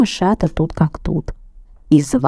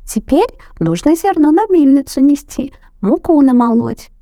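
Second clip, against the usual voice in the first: high squeaky voices; squeaking mice; 9 semitones higher, 3 dB louder than usual. A narrator's reading. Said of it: "запищали в один голос".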